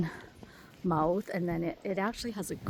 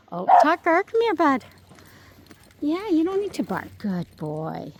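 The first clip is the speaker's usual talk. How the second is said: calling dog; 8 semitones higher, 6 dB louder than usual. Real, not acted.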